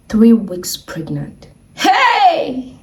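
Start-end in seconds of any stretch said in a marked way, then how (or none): 1.7-2.7 high, drawn-out mock scream; retold scream. Seeing the pregnancy result, retold high scream. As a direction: cry out high, without full force. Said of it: "the way I screamed".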